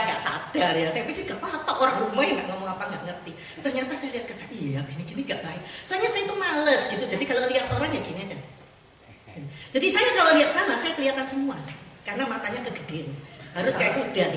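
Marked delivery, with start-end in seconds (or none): none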